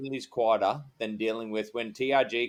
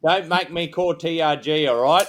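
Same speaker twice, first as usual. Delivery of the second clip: mock threat; 3 semitones higher, 5 dB louder than usual. Officer jokingly warns locals he will call in TRG. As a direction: warn the community with a grin, leaning on each word. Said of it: "I used to threaten a lot".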